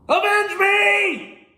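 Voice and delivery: very high, slow, drawn-out mock shout; dramatic cry. Father's ghost demanding revenge, slow high hammed-up shout. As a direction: ham it up like a dying father.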